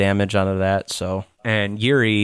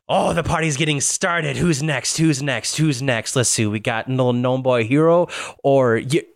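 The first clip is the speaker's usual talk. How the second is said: Lydia; 4 semitones higher than usual. Acted. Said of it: "And now Lydia goes".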